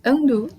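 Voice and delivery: undo as "uhn-doo". Shown as a demonstration. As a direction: undo with an English uh sound. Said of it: "como, por exemplo".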